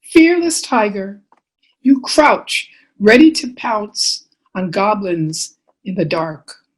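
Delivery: measured storytelling with lilting phrases; picture-book reading. Acted. Author reading bedtime book to children, expressive storytelling. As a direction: read to little ones, pausing between phrases.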